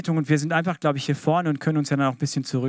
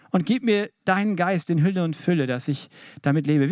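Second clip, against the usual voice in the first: heartfelt prayer. Shown as a demonstration. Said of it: "Ich sag dir, wie das Gebet wirklich klingen muss".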